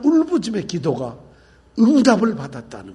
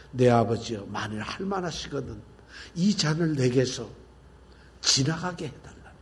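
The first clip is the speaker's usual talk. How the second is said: soft, quiet pleading prayer; hushed prayer; 7 semitones lower, 8 dB quieter than usual. Retold or imitated. Preacher voicing Jesus praying quietly in Gethsemane, soft plea. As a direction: pray it softly, barely above a breath.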